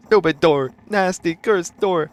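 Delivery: high, loud furious yelling; hammered-out shouts of rage; angry scream. Acted. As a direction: curse it out at the top of your voice. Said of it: "I scream at the top of my lungs".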